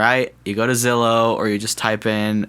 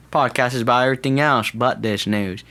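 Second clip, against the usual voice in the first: put-on Southern accent; 3 semitones higher than usual. Podcaster drifting off the news topic, Southern accent. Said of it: "I don't know why I'm doing Southern".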